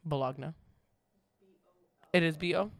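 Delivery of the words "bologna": Bologna said buh-LOG-nuh, the G sounded; spelling pronunciation. Shown as a demonstration. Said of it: "how to spell baloney".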